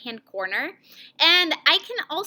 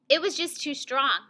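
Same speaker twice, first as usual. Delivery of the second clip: restrained, serious reading; understated sense of threat; serious mood. Shown as a demonstration. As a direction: say it gravely, a little held back. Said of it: "make my voice match that feeling".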